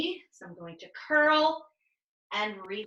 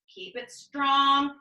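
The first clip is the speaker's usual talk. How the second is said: "Keep it strong" said louder and slowly, leaning on "strong"; pushing cue; 3 semitones higher, 5 dB louder, slower than usual. Shown as a demonstration. Coach urging the class through the hold with a louder, slow "Keep it strong". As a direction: drive "strong" home to the class. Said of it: "coach cueing the hold".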